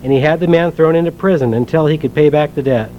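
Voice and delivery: measured, earnest Bible reading aloud; scripture reading. Acted. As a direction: read the parable to the congregation, steady and clear. Reads the parable from Matthew.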